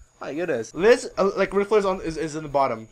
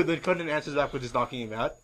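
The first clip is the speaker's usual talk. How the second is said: ordinary talk, nothing marked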